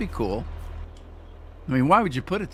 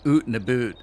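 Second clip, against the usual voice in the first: teasing Canadian oot and a boot, oot like hoot; exaggerated Canadian oot and boot; mock Canadian accent. Shown as a demonstration. Teasing a Canadian viewer in an overdone Canadian accent. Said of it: "I used to tease her about the".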